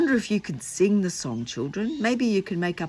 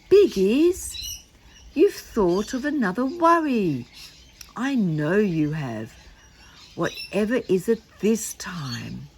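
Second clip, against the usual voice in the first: alarmed Noddy; 3 semitones higher, 3 dB louder than usual. Acted.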